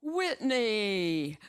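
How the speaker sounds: loud, booming hearty greeting; TV anchorman voice. A narrator's reading. Car dealer greeting her over the speakers, lightly voiced anchorman. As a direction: boom her name like a newsman. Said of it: "sounds like a T V anchorman".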